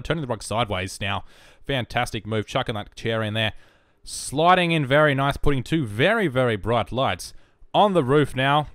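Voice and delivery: lightly voiced running play-by-play; sports commentator. Shown as a demonstration. Commentator calling furniture going in, lightly voiced play-by-play. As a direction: call each move like a commentator, swelling on key words. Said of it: "I can do a commentator's voice if you like".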